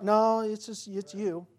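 ordinary talk

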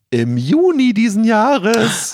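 hoch und langsam betont; dramatisch. Real, not acted. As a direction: wie eine große Enthüllung ausrufen. Dramatische Auflösung einer Frage. (dramatisch enthüllend)

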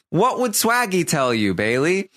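high, leaning-in challenge; mock rallying question. Podcaster voicing Kevin challenging Bailey, high mock pep talk. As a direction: goad her with a pointed question.

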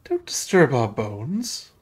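lightly voiced ghost girl, slow; little girl. Ghostly girl warning intruders off her bones, lightly voiced little girl. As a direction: draw it out slowly as a hint of a little girl. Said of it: "little girl goes like".

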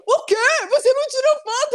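high, outraged O quê; shocked disbelief. Retold or imitated. The friend, stunned she took no photo, high disbelief. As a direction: act stunned that no photo was taken.

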